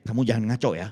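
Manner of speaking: low-pitched mock warning from a wife; wife's warning. Wife telling husband not to act up, low warning. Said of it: "istri saya cuma bilang nih".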